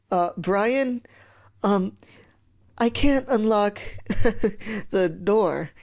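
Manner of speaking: high, halting admission with a nervous laugh; nervous hesitation. Acted. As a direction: stumble into confessing to your brother. Realises he is locked in.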